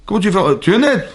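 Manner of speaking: voix de l'escroc. Retold or imitated. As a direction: talk down to the honest fool like a smug swindler. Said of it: "Je dis, mais c'est comme ça". (voix d'escroc moqueuse, bien plus aiguë)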